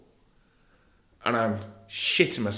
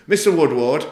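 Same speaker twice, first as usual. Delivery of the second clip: "Mister Woodward" called out louder and higher, rising; loud, raised judge's call of "Mister Woodward"; imitating the judge; 6 semitones higher, 9 dB louder than usual. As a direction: mimic the judge addressing him from the bench. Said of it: "and this is how he said it".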